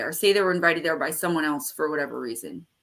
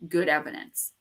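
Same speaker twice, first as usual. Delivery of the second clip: ordinary talk, nothing marked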